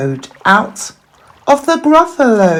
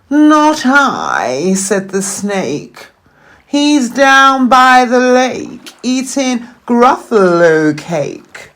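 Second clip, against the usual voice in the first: higher, hissy creature voice; sly snake; 5 semitones higher than usual. Acted. Snake teasing the Gruffalo's child, sly. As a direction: slither the words out slyly.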